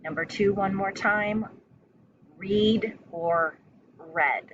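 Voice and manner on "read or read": slow Read or read, reed then red; two readings of read. Shown as a demonstration. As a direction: stretch each read out slowly. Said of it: "Same spelling".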